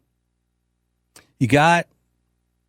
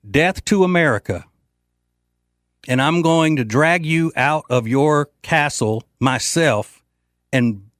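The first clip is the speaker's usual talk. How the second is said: tough threat; 3 semitones higher than usual. Retold or imitated. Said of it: "if I'm Trump, I'm saying".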